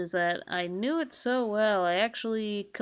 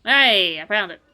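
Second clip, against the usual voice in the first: excited cry; 11 dB louder than usual. Real, not acted. Excited find.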